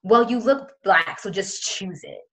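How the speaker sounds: drawn-out, condescending dismissal; imitated patronizing tone; condescending teacher. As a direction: talk down to a child, slowly. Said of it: "It was just very condescending".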